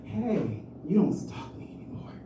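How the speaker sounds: soft unvoiced whisper of a teasing complaint; mock whisper. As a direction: breathe it out like a secret jab.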